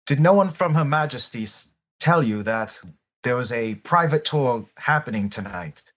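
lightly put-on British accent; worst British accent. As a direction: question the guard in mock-British tones. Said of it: "put on my worst British accent".

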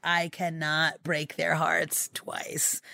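slow, weighted words in a retold plea; retold firm refusal. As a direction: spell out each word slowly, as if refusing. Retelling her refusal to coworkers.

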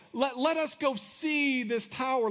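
gently mock their grand project; mild mockery. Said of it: "he's mocking them a little bit".

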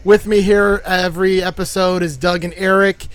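hint of a polished radio host; lightly put-on professional announcer; transatlantic radio announcer voice. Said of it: "I'm trying to do my transatlantic voice".

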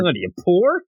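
teasing jab with a rising end; playfully roast her; half-joking put-down; mock shaming. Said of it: "I'm just shaming her".

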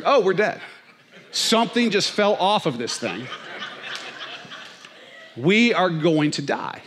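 mock panic. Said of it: "I'm like".

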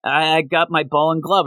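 little brother calling. Retold or imitated. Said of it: "Teo comes out of the house".

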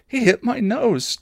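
high, slow stunned cry. A narrator's reading. Tara cries out holding her nose, high and slow. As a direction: say it in disbelief, pitched high. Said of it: "Tara cried".

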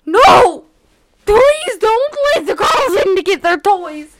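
high, whiny pleading shout; pleading yell. Real, not acted. Pleading to keep girls out.

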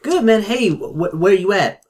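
high, fast, jittery caller; nervous Mickey. Acted. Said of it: "Does he sound nervous?".

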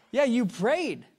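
high, loud imitation of her insistence; excited reply. Woman reminding the preacher that he prayed, excited.

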